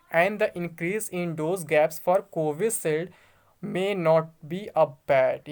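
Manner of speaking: slow, word-by-word reading of English text; slow news reading. Acted. Vlogger reads the news to his friends, slow careful reading. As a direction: spell out each English word carefully, slowly.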